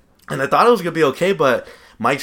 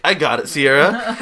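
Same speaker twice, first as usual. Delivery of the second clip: flexing brag; 3 semitones higher than usual. Retold or imitated. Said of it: "I started flexing".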